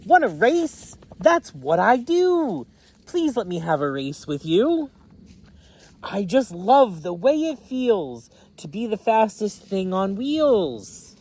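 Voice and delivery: very high, loud cheery hail; excited shout. Acted. Red shouts hello to Blue, high and loud. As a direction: call out bursting with excitement.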